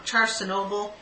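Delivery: "charcinoble" sounded out like Chernobyl gone wrong; "charcinoble" said as an admitted guess; mispronounced charcinoble. Real, not acted. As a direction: attempt "charcinoble" as char-si-NO-bul. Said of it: "I'll say it wrong".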